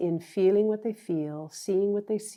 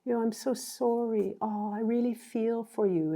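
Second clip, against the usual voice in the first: emotional sympathy; 4 semitones higher than usual. Retold or imitated. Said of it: "women do tend to be more emotional".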